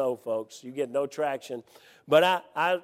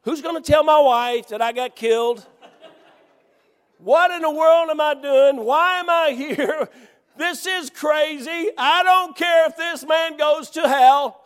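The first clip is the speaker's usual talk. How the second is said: laughing inner thoughts; 12 semitones higher, 8 dB louder than usual. Retold or imitated. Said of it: "The first thought was".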